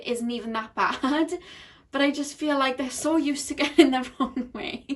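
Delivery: talking through a light chuckle; amused, a laugh slipping into the words; suppressing a giggle mid-sentence; holding back laughter. Real, not acted. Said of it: "feel like I need to laugh".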